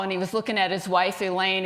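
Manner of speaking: ordinary delivery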